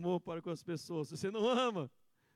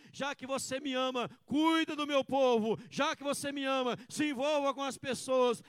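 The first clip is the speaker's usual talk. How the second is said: fervent preaching; 7 semitones higher, 7 dB louder than usual. Acted. Pastor preaching Jesus' words to the congregation, fervent. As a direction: preach it out to the church.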